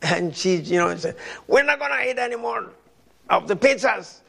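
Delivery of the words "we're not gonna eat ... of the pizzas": scared wife. Retold or imitated. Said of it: "She got scared".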